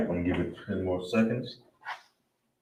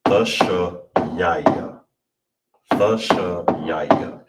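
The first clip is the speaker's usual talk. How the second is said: slow breakdown; 4 dB louder, much slower than usual. Shown as a demonstration. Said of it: "So all together is".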